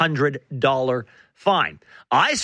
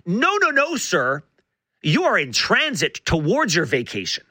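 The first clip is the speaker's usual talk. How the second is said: mock scolding. Mock scolding an imagined traveller.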